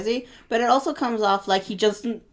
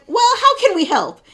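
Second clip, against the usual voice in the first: sweet parent; 11 semitones higher, 6 dB louder than usual. Retold or imitated. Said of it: "the conversation goes like this".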